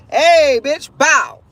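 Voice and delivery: playful sudden punch of a call; ambushing emotions. Acted. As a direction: hit them out of nowhere with it. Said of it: "wave of emotions".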